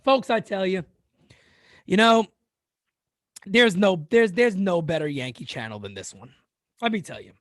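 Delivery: lightly slurred tipsy host; mock drunk. Streamer pretending to host his chat drunk, lightly slurred. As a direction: play at being a bit drunk. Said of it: "I'm gonna do a chat drunk".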